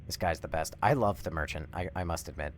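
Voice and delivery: ordinary talk, nothing marked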